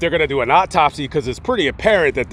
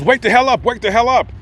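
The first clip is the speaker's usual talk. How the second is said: higher-pitched, insistent retold order; mock rousing call; 6 semitones higher than usual. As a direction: imitate a sheriff rousing a sleeper. Sheriff shakes a sleeper awake.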